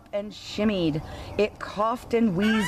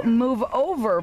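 bossy order; 3 semitones higher, 3 dB louder than usual. Acted. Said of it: "bossed the cow".

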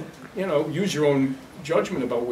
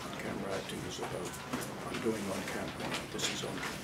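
much softer and lower, mock-timid; tiny on-camera voice; 10 semitones lower, 13 dB quieter, faster than usual. Shown as a demonstration. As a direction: shrink the voice right down as a parody. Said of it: "think on-camera acting is about this".

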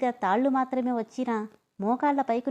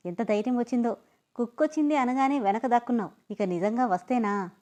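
suppressed laugh. Acted. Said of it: "నవ్వుని అతి కష్టంగా ఆపుకుంటూ".

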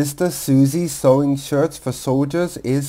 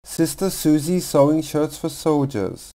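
building from brisk to very fast; speeding up; faster than usual. Shown as a demonstration. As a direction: rattle it off faster each time. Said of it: "faster and faster".

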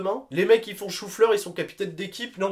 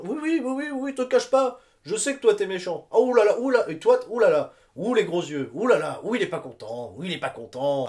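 teasing mock taunt; 3 semitones higher than usual. Mock-teasing the viewer, pointing.

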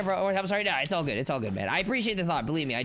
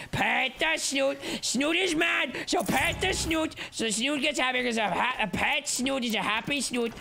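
coaxing singsong; 4 semitones higher than usual. Pretend. Coaxing sing-song about the boss.

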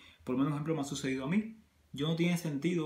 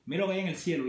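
lively higher, louder retold line; retold pointing-out; 4 semitones higher, 4 dB louder, faster than usual. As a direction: point something out brightly to a companion. Retelling own words to coworker.

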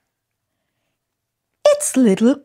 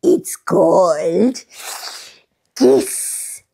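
crocodile mum voice. Acted.

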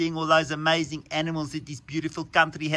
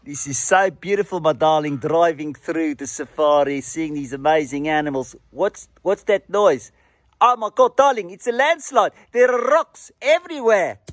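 lightly voiced posh husband; posh safari husband; 5 semitones higher, 5 dB louder than usual. Husband fussing over his darling on safari, mock posh. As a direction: play the doting husband with a touch of camp.

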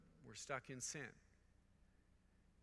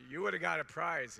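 chirpy waitress; 5 semitones higher, 13 dB louder than usual. Retold or imitated. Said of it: "She goes".

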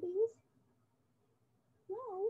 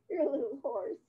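mock horse whinny; 5 dB louder, faster than usual. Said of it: "You're not a horse".

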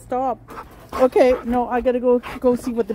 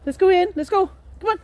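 ordinary delivery

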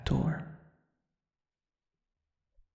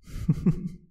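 airy breathless ghostly giggle; eerie little whispered laugh; 9 dB louder than usual. Acted. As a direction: giggle under your breath like a delighted ghost. Ghost delighted by visitor.

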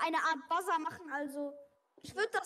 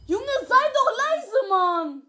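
whisper yelling; 5 semitones higher, 12 dB louder, much slower than usual. Real, not acted. Tells teammate to be quiet.

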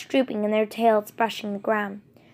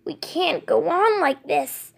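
slow, breathy whisper to herself; 6 semitones higher, slower than usual. Acted. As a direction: whisper it slowly, almost to yourself. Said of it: "the old she-cat whispered to herself".

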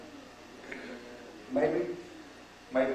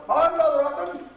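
put-on invalid old woman; 14 semitones higher, 6 dB louder than usual. Invalid woman greets the preacher.

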